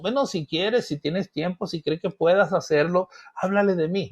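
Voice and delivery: casual, optional-sounding request; easygoing, take-it-or-leave-it suggestion; tentative suggestion. Acted. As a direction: offer it lightly, as if it hardly matters. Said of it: "No te está diciendo".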